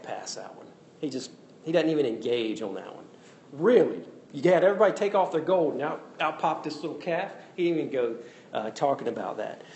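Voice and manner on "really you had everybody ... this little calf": incredulous, fast and louder; mock disbelief. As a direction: scoff at the lame excuse. Incredulous retort to Aaron's excuse.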